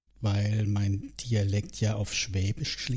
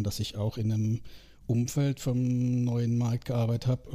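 ordinary talk, nothing marked

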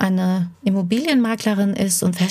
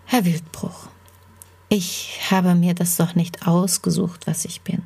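breathy whisper, barely any voice. Acted. Eleonore answers Herr Wildbruch in a whisper. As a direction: whisper it as a secret confession.

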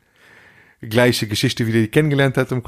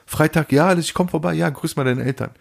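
euphoric; 2 semitones higher than usual. Retold or imitated. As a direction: gush like a keen boyfriend on the phone. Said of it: "wirklich euphorisch angerufen". (gespielt euphorischer Anruf beim Freund)

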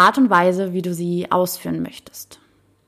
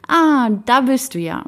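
higher, gently welcoming greeting; a touch of tender welcome; gentle voice; 5 semitones higher, 3 dB louder than usual. A narrator's reading. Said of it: "sagte sie mit sanfter Stimme".

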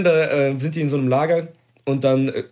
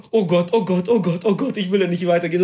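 mock whimpering. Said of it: "vor mich hingewinselt".

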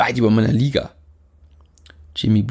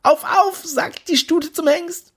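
hearty bellow from the shower, higher and loud; loud booming call. A narrator's reading. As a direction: boom it out across the flat. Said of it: "sein lautes Ochsenknechtorgan".

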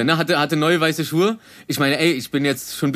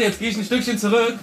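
fading away; 4 semitones higher than usual. Shown as a demonstration. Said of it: "dass meine Stimme leiser wird und weiter weg".

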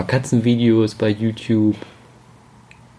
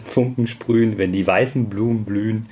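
recited like a poem; solemn recital, building to a punchline. Acted.

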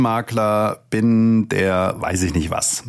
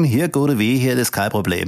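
leicht hessischer Dialekt. Shown as a demonstration. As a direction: hessisch gefärbt, locker. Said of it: "ich kann Hessisch sprechen". (leichter hessischer Akzent)

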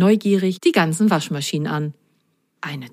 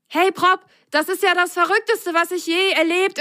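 thrilled squeal; 11 semitones higher than usual. Acted. Milo thrilled as whirlpool begins.

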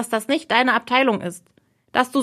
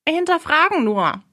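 croaking; 7 semitones higher than usual. A narrator's reading. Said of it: "krächzt Lora".

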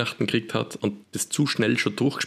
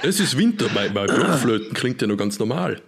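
mock yokel voice; 3 semitones higher, 3 dB louder than usual. Imagined hardy relatives in winter.

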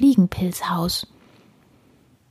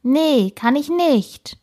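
slow, higher-pitched letdown; disappointed call; 7 semitones higher, slower than usual. A narrator's reading. Girl cannot spot the hidden speaker, disappointed. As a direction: draw it out with mild disappointment. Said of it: "Enttäuscht rief sie".

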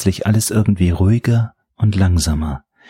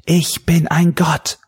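slow, much higher exultant shout; louder shout; 9 semitones higher, slower than usual. A narrator's reading. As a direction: roar it even louder. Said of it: "diesmal noch lauter".

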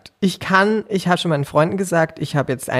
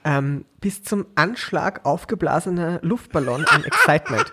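giggling through the words; laughing; 4 semitones higher than usual. Real, not acted. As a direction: gush while laughing. Laughing while raving about Utica. (lachend vor Begeisterung)

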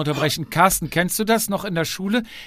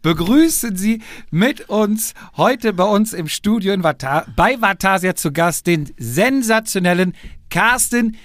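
slow, drawn-out host announcement; grand entrance announcement. Acted. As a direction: announce the star guest grandly. Introducing the guest.

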